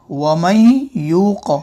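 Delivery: वमन यूक़ with the noon hummed through the nose; drawn-out वमन यूक़, nasalized noon; nasal ghunna. Shown as a demonstration. Teacher demonstrating ghunna to students, slow and nasal. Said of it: "यानी नाक में आवाज़ गुन्ना होगा".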